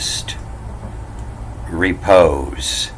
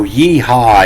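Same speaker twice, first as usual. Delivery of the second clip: cowboy holler; 5 semitones higher, 4 dB louder than usual. Acted. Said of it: "jump on your horse and you holler".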